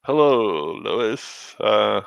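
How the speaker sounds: hesitant mock Southern greeting; Southern accent impression. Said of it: "the same accent from Con Air".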